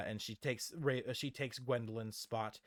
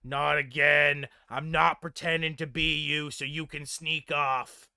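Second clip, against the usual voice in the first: exasperated; 8 dB louder than usual. Acted. Raven refusing to cover for Gwendolyn, exasperated. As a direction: push it out loudly, fed up. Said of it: "she rolls her eyes".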